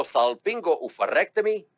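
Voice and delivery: salpingo-oophorectomy with crisp Spanish vowels, sal-PEEN-go; salpingo-oophorectomy given a Spanish touch; Spanish-flavoured pronunciation. Shown as a demonstration. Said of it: "I threw in a little Spanish, uh, pronunciation in there".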